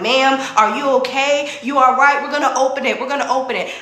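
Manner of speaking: mock-worried calling through the elevator doors; worried bystanders.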